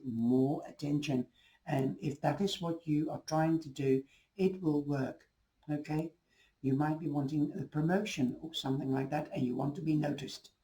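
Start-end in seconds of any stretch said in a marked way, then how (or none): 5.7-10.5 hoarse, failing voice; a voice that's giving out; losing voice. Real, not acted. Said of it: "I'm sorry, I'm losing my voice".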